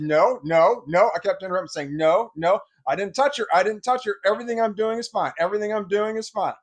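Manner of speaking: put-on boy keeps yelling over the husband; yelling over him. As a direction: keep interrupting at full volume. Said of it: "We were both yelling at the same time".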